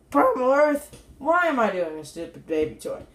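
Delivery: mock yourself asking the same question; self-questioning. Reviewer asking himself about the toy, mock self-questioning. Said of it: "And I'd be saying".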